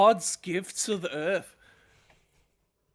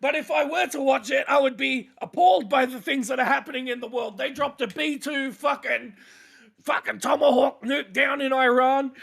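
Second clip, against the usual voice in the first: mock news anchor; 4 semitones higher than usual.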